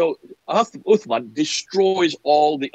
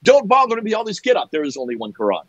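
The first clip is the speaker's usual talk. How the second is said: mocking mantra. Mimicking a Muslim repeating the one-Quran mantra, mock voice. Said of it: "do that mantra over and over".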